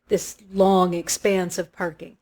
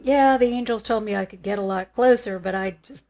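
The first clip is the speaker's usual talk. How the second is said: joking. Retold or imitated. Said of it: "And I'm joking".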